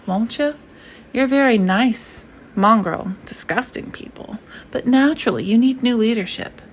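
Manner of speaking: a dictator coaxing American listeners into surrender; persuasive totalitarian. Acted. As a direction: sell conquest like a smooth radio salesman. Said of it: "A totalitarian voice, persuasive".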